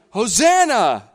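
loud, high, drawn-out acclamation; crying out. Retold or imitated. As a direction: cry it out like a welcoming crowd. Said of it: "they're crying".

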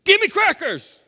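high, loud demanding shout; shouting toddler demand; toddler yell. Retold or imitated. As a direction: yell it like a cranky two-year-old. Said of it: "he's like".

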